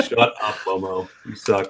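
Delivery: mock heckler jeering a player; heckling from crowd. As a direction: jeer at him from the stands. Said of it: "you just sound like that heckler".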